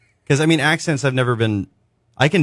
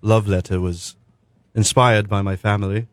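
bad English accent. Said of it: "do a really bad English accent".

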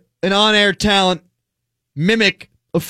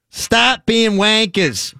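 put-on failed Boston accent; 3 semitones higher, much slower than usual. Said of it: "I wish I could do a Boston accent".

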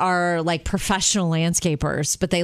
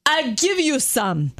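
put-on Jamaican accent; 4 semitones higher, slower than usual. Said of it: "he had the most awesome Jamaican accent".

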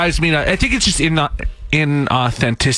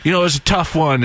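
mildly mocked upbeat fan tweet; lightly put-on supportive cheer; fake positivity. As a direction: imitate relentless encouragement of a losing team. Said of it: "Why are you always positive".

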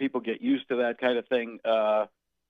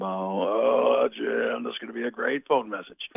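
lightly voiced eager Romo; a hint of the excitable analyst; Tony Romo; slower than usual. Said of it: "left me a message".

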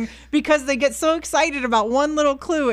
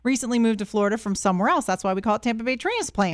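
radio host read; 4 dB quieter than usual. Acted. Radio station ident and recap.

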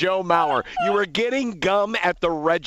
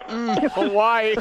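dreamy sigh; 4 semitones higher, slower than usual. Retold or imitated. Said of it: "There's a drop".

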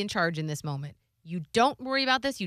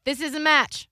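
mother's accusation; 6 semitones higher, 6 dB louder than usual. Retold or imitated. Mother abruptly raising the topic.

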